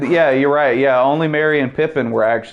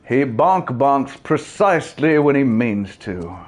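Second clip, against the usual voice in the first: Gandalf impression; slower than usual. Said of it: "Ian McKellen and Christopher Lee".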